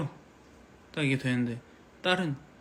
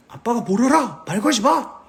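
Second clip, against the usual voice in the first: higher, louder defiant yell; son yelling; 8 semitones higher, 7 dB louder than usual. Pretend. Son yelling at his dad to back off, loud and defiant. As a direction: shout it back like a rebellious son. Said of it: "아들이".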